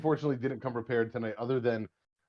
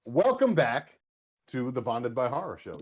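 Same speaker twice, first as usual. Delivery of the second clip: podcast host intro; 4 dB louder, slower than usual. Acted. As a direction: open the show like a host. Opens the podcast episode.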